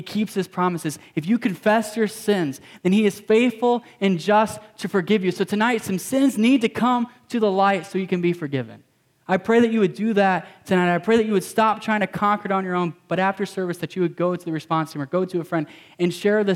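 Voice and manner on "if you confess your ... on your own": pressing, emphatic sermon appeal; preaching appeal. Acted. Pastor urging the congregation to confess, emphatic. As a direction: urge them to bring sin to light.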